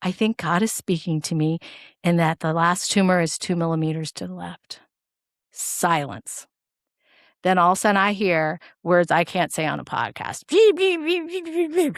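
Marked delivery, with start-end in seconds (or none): none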